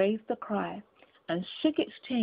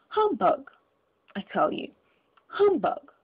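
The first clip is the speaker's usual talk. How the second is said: put-on raised, defiant old miser bursting into humbug; Scrooge defiant. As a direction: scoff it away, a cranky old man. Scrooge defies the ghost.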